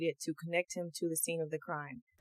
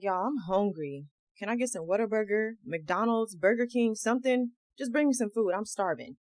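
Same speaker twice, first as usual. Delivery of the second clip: nonchalant; 2 semitones higher than usual. Retold or imitated. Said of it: "real nonchalant and carefree".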